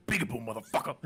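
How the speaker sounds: deepest voice you can muster; extremely deep bass voice. Retold or imitated. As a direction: drop to the lowest growl possible. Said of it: "the deepest voice I can muster".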